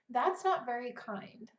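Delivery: a gentle correction. Shown as a demonstration. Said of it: "I sometimes say very gently".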